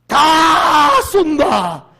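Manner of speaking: high, drawn-out full shout; crowd-rousing proclamation. Shown as a demonstration. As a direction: shout it out to wow everyone. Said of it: "이러면 사람들이 감동 먹거든". (높고 길게 내지르는 통 큰 외침)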